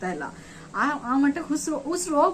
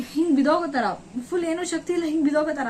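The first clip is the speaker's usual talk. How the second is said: tearful; 3 semitones higher, faster than usual. Real, not acted. Retelling near-collapse, crying.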